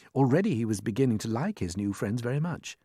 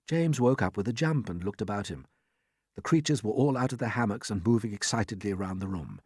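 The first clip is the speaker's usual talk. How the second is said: ordinary delivery, nothing marked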